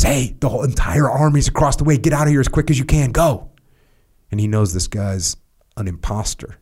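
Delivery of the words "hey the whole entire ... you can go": higher, fast, urgent messenger; urgent warning. Retold or imitated. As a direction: rush the warning out in a panic. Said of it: "and says".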